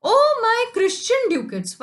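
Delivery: high, loud and slow cry; mock wail. Teacher acts Shylock shouting in the streets, mock wail. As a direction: drag out the grief-stricken cry. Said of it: "जोर जोर से शार्लॉक क्या चिल्ला रहा है".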